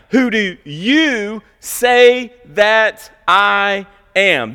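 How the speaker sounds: slow, stretched "you" in each question; emphatic Jesus quote. Acted. Jesus questioning each disciple by name, emphatic on "you". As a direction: press every "you" like asking each disciple. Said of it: "Jesus is saying".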